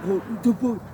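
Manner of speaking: imitating an annoyed coworker; mock angry retort. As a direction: throw it back like an irritated boss. Scott's angry retort retold.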